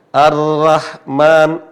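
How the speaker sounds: Ar-Rahman slowly, ro heavy toward O; thick ro. Shown as a demonstration. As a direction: stretch Ar-Rahman with a rounded ro. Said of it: "bukan Rahman".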